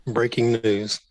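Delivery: buzzy, tinny voice; like through a cheap earpiece; metallic voice filter. Real, not acted. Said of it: "There's a buzzy, tinny voice".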